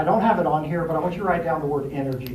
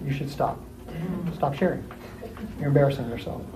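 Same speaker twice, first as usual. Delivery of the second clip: blunt put-down; 2 semitones lower, 8 dB quieter than usual. Acted. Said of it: "that's when the D says".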